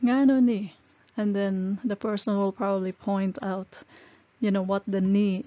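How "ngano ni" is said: louder, higher, pointed demand for an explanation; demanding question. Retold or imitated. Boss confronting someone over a mistake, pointed and demanding. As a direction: call someone out on it. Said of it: "this is so typical".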